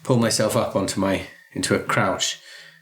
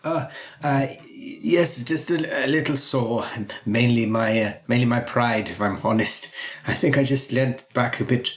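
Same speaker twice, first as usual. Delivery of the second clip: embarrassed doctor character; 3 semitones higher than usual. Acted. Fallen doctor reassures Rosalie about his pride, halting and sheepish. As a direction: stammer sheepishly, brushing off the fall.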